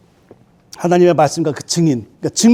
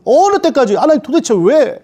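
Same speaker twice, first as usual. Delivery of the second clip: crying out; 6 semitones higher than usual. Acted. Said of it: "그런 느낌으로 말하고 있는".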